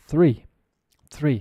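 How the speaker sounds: three with only air on the th; unvoiced th. Shown as a demonstration. Teacher contrasting three with rhythm, breathy th without voice. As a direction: say three, no vocal cords on th. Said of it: "we're not vocalizing it".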